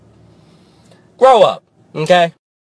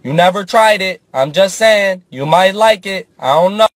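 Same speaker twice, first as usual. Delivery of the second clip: tempting inner voice; 2 semitones higher than usual. Pretend. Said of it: "The other half of me was like".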